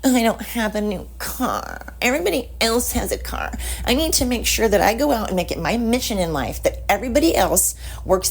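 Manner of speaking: mock entitled whine, pitch up; entitled whiner. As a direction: whine like a spoiled brat who wants a car.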